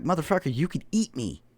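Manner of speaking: high incredulous motherfucker; mock awe. Teller marvelling at the huge Seabee, high and amazed. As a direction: marvel at the jacked guy. Mocking awe at jacked guy.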